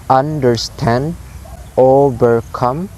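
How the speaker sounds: "understand, overcome" split, last syllable stressed; weight on STAND and COME in "understand, overcome"; anapestic stress. Shown as a demonstration. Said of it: "It's like low, low, high".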